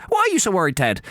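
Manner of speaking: high naive Irish-priest voice; Dougal. Retold or imitated. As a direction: play the clueless sidekick. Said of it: "And then Dougal says".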